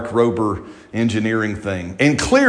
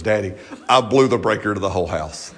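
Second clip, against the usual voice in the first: sheepish confession; 3 semitones lower than usual. Retold or imitated. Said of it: "He goes".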